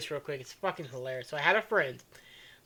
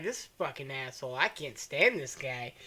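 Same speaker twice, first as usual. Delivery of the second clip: muttered anger; 7 semitones lower, 12 dB quieter than usual. Retold or imitated. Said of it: "He's like".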